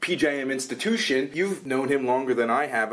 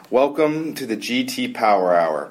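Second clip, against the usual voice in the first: ringmaster; 5 dB louder than usual. Acted. Show opening announcement.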